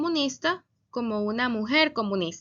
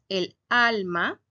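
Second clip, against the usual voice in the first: slow, careful examples; 3 dB louder, much slower than usual. Shown as a demonstration. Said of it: "Otros ejemplos".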